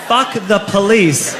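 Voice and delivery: stretched-out retold party yell. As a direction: imitate drunk kids yelling, without full volume.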